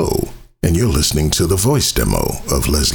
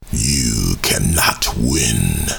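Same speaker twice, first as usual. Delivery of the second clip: booming echoing villain monologue; 3 semitones lower, slower than usual. Acted. Villain line with music.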